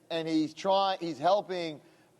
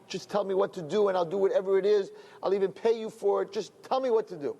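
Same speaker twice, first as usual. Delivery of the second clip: retold tearful pleading; 3 semitones higher, faster than usual. Father begging the Rebbe to help his son, mildly tearful imitation. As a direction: mock-desperate plea in a raised, steady voice. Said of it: "the guy started crying over again".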